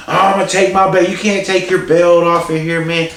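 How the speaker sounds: put-on drunken angry yell. Furious drunk dad retold.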